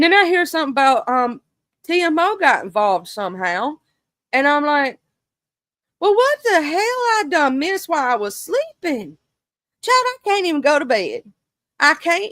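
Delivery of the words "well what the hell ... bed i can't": mock exasperation. Retold reaction to missed drama.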